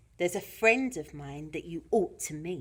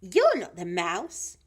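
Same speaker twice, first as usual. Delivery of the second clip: put-on childlike challenge with swooping pitch; Gruffalo's child; 5 dB louder than usual. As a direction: leap up on the first word, end rising.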